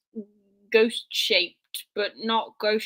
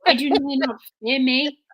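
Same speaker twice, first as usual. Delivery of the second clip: petulant demanding whine, louder; sulky monster tantrum; 3 semitones higher, 4 dB louder than usual. Retold or imitated. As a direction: throw a childish tantrum as a monster. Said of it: "like a little kid stamping his feet".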